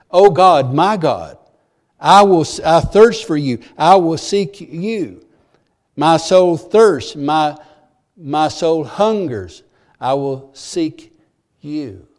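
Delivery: loud cry that slows into longing; fervent prayer. Retold or imitated. Preacher voicing David's prayer, fervent then slow. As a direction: pray it like a thirsty man. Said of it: "clarity in his prayer".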